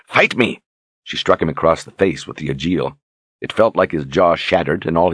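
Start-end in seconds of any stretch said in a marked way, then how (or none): 0.1-0.6 high angry yell; furious shout. A narrator's reading. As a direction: hurl it at him. Berdine screams again.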